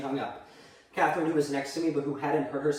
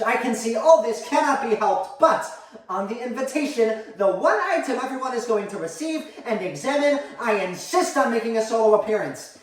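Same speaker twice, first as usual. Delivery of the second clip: higher, emphatic declaration; imperious mother; 5 semitones higher, 3 dB louder than usual. Acted. Mother insisting on her own invitation line, imperious. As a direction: lay down terms with lofty insistence.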